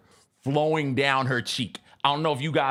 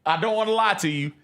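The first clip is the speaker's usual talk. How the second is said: reluctant confession; 7 semitones higher than usual. Retold or imitated. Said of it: "It's like".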